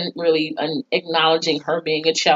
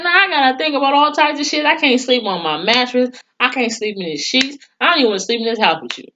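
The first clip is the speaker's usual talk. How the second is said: higher-pitched, worked-up refusal; indignant rant; 6 semitones higher, faster than usual. Acted. Speaker imagining telling off a cheating partner, indignant. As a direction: rattle it off like a fed-up complaint.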